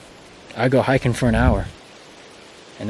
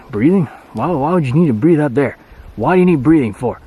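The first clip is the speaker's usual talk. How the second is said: mock incredulous; 3 semitones higher, 4 dB louder than usual. Mocking Colorado people.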